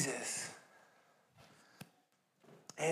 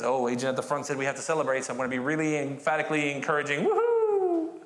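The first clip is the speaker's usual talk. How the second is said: mock forced enthusiasm; 4 semitones lower than usual. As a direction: send up dutiful cheering. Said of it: "It's not just because".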